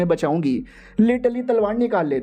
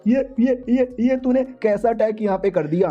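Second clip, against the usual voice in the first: high-pitched, stammered cry of disbelief; mock outcry; 3 semitones higher than usual. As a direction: exclaim it high without real shouting. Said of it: "वो भी चिल्लाने लगता". (हल्की बनावटी चीख, ऊँचे सुर में)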